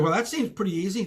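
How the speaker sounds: casual no-big-deal reply; nonchalant. Retold or imitated. Customer brushing off the cashier's request, nonchalant. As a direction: toss it off lightly, as if it's easy. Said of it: "So, like, nonchalant, like, no big deal".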